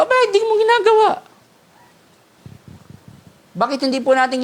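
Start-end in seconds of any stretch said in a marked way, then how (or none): 0.0-1.1 pointed challenge. Real, not acted. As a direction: call them out sharply. Preacher challenging congregation.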